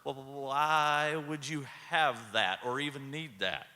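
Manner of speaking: imitating a rattled rookie, drawn-out WHY; wide-eyed stammer. Young cop questioning the president, wide-eyed and stammering. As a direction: stumble slowly into the question, mildly alarmed. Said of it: "He's a little wide-eyed".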